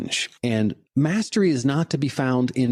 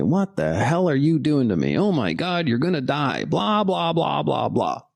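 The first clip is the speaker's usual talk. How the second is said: panicky lizard brain; 2 semitones higher than usual. Retold or imitated. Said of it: "your lizard brain is gonna say".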